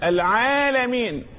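slow العالمين, long vowel drawn out; natural madd. Shown as a demonstration. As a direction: lengthen the عا of العالمين. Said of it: "كانت قراءته صلى الله عليه وسلم مدا".

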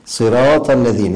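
صراط with an unforced long ā; natural-length madd. Shown as a demonstration. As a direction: let the alif of صراط come out naturally. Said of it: "يخرج بالطبيعة السليمة كده".

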